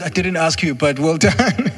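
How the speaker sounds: lightly voiced mother, pleased; mom praising.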